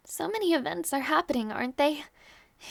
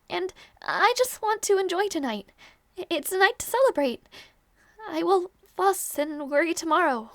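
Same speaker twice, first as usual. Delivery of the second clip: bright, louder, higher push of joy; forced cheer; 4 semitones higher, 5 dB louder than usual. Acted. Lady putting on cheer for the knight's last night. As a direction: insist on the celebration to hide the sadness.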